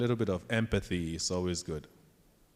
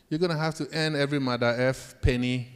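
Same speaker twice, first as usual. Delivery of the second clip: retold scolding; 5 semitones higher, 3 dB louder than usual. Angry supervisor scolding him.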